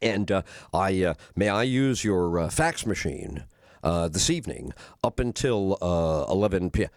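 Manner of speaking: deep, smooth hotel-guest voice; low voice. Retold or imitated. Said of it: "get my, uh, low voice going".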